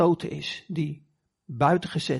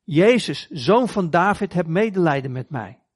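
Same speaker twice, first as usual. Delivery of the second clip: luid roepend, niet schreeuwend; roepen om hulp; 4 dB louder than usual. Retold or imitated. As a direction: roep hem hard na, smekend. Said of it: "Maar hij schreeuwt nog harder". (luid smekend geroep)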